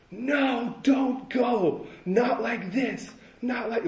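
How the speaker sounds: high, tearful plea, imitating mother; imitating mom crying. Mom clutching her son as he leaves, high tearful plea. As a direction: beg him not to leave like a sobbing mom. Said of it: "my mom starts crying".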